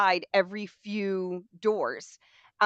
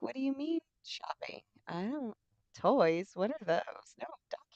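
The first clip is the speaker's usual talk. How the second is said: put-on confused little boy; 5 semitones higher, 8 dB quieter than usual. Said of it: "looking at his mom like".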